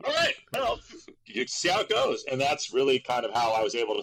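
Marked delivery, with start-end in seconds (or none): 0.0-2.2 put-on surprised kid. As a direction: gasp it out surprised, then shrug. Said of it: "I'm like".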